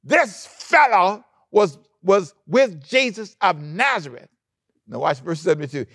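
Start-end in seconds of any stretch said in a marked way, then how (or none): 0.0-4.3 put-on slow, higher, sly tattling girl; lightly voiced sly servant girl; servant girl whispering gossip. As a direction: drag it out, higher, like a girl telling tales. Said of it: "She said to some guys".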